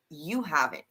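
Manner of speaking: You haven't, falling flat at the end like a statement. Shown as a demonstration. Correcting the co-host's reading, a flat statement. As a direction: state it, don't ask it. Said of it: "he didn't say it like a question".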